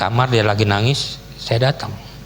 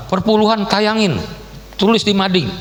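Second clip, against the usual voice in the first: retold outburst; 9 semitones higher than usual. Quoting own sarcastic outburst in quarrel.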